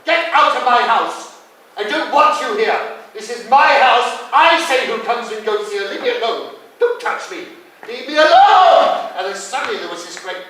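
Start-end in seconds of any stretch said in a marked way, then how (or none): 0.0-9.1 high, loud, frantic screaming. Acted. Acted mother screaming at the men, hysterical.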